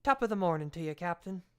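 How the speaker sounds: cheeky stage Irish brogue; Irish brogue as a wisecrack; mock Irish brogue. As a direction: ham up an Irish brogue to tease the captain. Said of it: "in his best Irish brogue".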